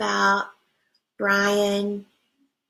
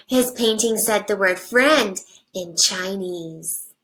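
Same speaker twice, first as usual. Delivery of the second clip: put-on reading to children. Teacher reading a picture book to her class, animated storybook voice.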